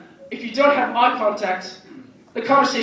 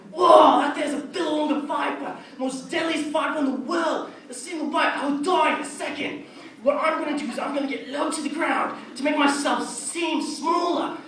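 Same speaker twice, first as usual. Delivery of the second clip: Steve Irwin impression; 3 semitones higher than usual. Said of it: "he'd just be like".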